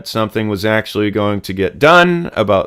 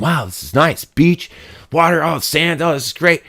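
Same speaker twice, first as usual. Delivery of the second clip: mock delight; 6 semitones higher, 3 dB quieter than usual. Acts out first-week vacation delight.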